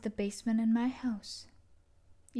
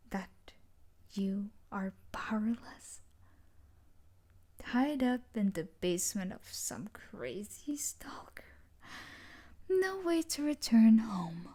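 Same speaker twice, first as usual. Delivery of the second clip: taunting whisper. Acted. Taunting the tied-up captive.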